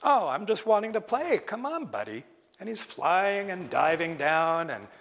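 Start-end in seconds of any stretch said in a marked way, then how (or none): 0.0-2.2 playful Raven. Acted. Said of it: "And like".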